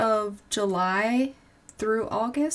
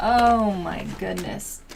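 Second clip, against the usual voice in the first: slow exasperated; 5 dB louder, slower than usual. Real, not acted. Drawn-out exasperated sigh phrase.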